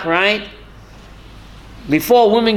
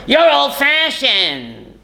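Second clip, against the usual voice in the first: drawn-out, higher-pitched mock dismissal; slow mocking put-down; mocking imitation; 5 semitones higher, much slower than usual. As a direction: imitate indoctrinators scoffing, stretched out slowly. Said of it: "and they tell them".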